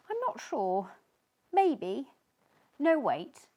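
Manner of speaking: sneeze building. Acted. Sneezy feeling a sneeze coming on. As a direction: feel it coming.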